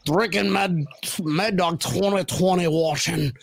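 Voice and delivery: put-on a loose, half-hearted Scottish accent; a Scottish Alabama man, slow and hammed up; Scottish accent attempt. Host voicing a viewer's text, in a weak Scottish accent. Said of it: "Jim Graham goes, Scottish accent".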